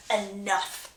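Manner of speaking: usual speaking voice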